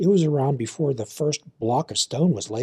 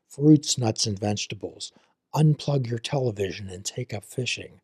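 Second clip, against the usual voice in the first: calm, measured host outro; podcast sign-off. Acted. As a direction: read the closing like a warm blessing. Host closing sign-off read.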